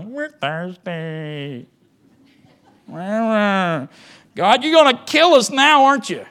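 hammed-up whine, drawn out then rising to a loud wail; mad complaining. Israelites complaining to God after the crossing, mock whine. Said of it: "getting mad and complaining there".

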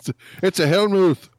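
high-pitched "Hellmouth" as "hell-mooth"; quick, high voice, "Hellmouth" with a long oo; "Hellmouth" rhymed with tooth in a put-on high voice; mock pronunciation. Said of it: "that's not how it's pronounced".

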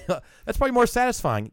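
imitating the wife. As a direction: pitch it way up, lightly mocking her. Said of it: "She goes".

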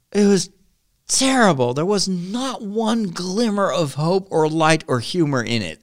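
high-pitched, incredulous dismay; exasperated lament. Real, not acted. Podcaster lamenting books without any hope, exasperated.

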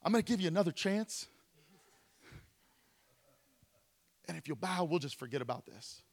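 the king dropping his voice to coax them; king softening. Retold or imitated. The king offers the Hebrews another chance, in a hushed coaxing tone. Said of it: "this king was like".

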